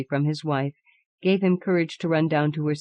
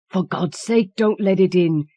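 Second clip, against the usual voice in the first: trembling cry; 3 semitones higher, 5 dB louder than usual. Acted. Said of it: "cried the old man, trembling".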